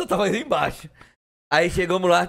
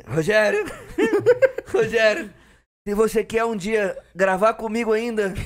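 high, hammed-up begging; mock dying friend wailing for help; imitated desperate plea; 6 semitones higher than usual. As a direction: plead as if dying, pitch and volume climbing. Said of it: "Aí ele falou assim, eu lembro até hoje".

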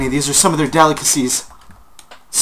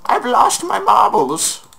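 lost my marbles; slower than usual. Real, not acted. Sudden shriek over lost items.

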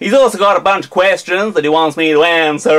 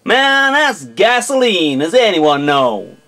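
American accent. Shown as a demonstration. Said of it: "an entire video in an American accent".

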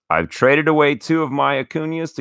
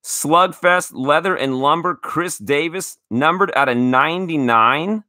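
radio voice; 3 semitones higher than usual. Pretend. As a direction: read it like a radio announcer. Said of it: "Voice goes into radio voice".

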